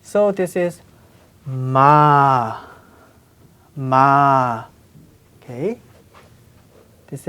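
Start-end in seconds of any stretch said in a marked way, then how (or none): 1.5-4.6 "ma" held long on an open ah; syllable reading. Shown as a demonstration. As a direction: read "ma" as a slow, separate syllable. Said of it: "let's read these syllables".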